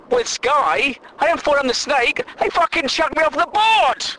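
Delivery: rising furious rant at the phone company; sweary tirade building in pitch; angry rant. Real, not acted. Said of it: "too angry".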